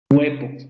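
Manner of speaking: HUEVO begun on a full vowel U, "oo-EH-bo"; over-marked U. Shown as a demonstration. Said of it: "es una pronunciación muy marcada".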